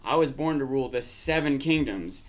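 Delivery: "Seven Kingdoms" given the main emphasis; stress on Seven Kingdoms. Shown as a demonstration. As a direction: lean deliberately on the words "Seven Kingdoms". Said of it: "the emphasis is on the Seven Kingdoms".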